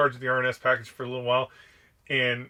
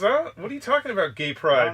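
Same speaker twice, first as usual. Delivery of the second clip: higher, puzzled mock surprise; baffled gunny; 4 semitones higher than usual. Gunny reacts to McCrate's complaint, mock baffled surprise. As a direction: play the clueless gunny caught off guard. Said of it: "He goes".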